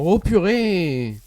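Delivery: slow shaken exclamation; scared horror game streamer. Real, not acted. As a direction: still shaken from the jump. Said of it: "J'ai sursauté à cause de ton".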